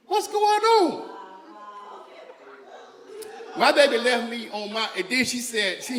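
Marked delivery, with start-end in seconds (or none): 0.1-1.1 high, drawn-out mock alarm; stretched, high-pitched baffled outcry; acted bewilderment. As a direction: cry it out slowly in hammed-up disbelief. Acted shock at finding her bag.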